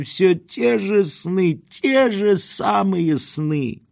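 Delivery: put-on high, slow, plaintive old man's wail; old man's lament. A narrator's reading. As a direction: grieve like a weeping old man over his dreams. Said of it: "Произнеся эту жалобу". (высокий, медленный старческий плач)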